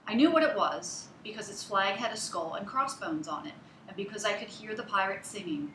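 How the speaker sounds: put-on story narration for a child, clear and paced; modeled storybook reading; expressive read-aloud. Shown as a demonstration. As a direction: read it like a storyteller showing good fluency.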